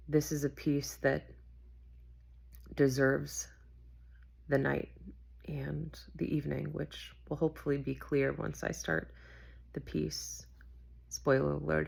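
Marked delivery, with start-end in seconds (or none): 5.5-10.5 hushed whisper. Acted. Late night talk, mood of night.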